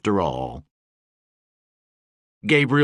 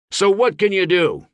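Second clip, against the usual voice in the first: higher, raised voice; challenging speech; 9 semitones higher, 4 dB louder than usual. A narrator's reading. Gabe challenging his audience, raised oratory. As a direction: throw the question at the crowd.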